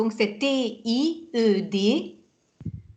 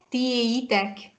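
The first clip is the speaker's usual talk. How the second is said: "Tiéitek" said slowly, each syllable clear; slow model; 3 dB quieter than usual. Shown as a demonstration. Teacher repeating the plural slowly for her student. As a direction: draw out "Tiéitek" for the learner. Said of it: "Et Tiéitek?".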